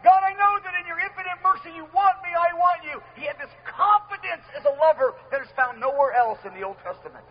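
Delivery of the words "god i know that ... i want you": higher, open and earnest confession; lightly voiced earnest prayer of David; bold lover's prayer. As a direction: pour your heart out to a Father. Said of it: "would walk boldly".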